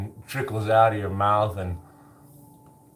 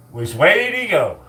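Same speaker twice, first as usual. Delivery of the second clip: dazed high voice; 7 semitones higher, 6 dB louder than usual. Retold or imitated. High on dentist chair.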